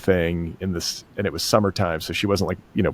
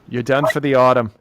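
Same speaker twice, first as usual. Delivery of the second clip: mock send-off, pitched up and louder; higher, punchy playful dismissal; confusing voice; 4 semitones higher, 5 dB louder than usual. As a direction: declare it over in a puzzlingly pointed voice. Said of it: "say it in a voice that's, like, so confusing".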